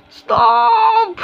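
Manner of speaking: high squealed stop through laughter; laughing stop. Real, not acted. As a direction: cry out stop mid-giggle. Laughing, tells someone to stop. ("Stop" sambil tertawa, nada tinggi)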